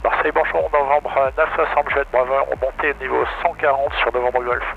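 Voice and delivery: radio call through the headset; over a pilot headset. Real, not acted. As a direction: pilot calling control.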